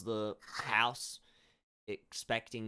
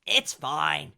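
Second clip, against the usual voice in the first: higher, louder, slow wistful pride; proud old farmer; 6 semitones higher, 10 dB louder, much slower than usual. Acted. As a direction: claim past strength with dignity. Old farmer declines help.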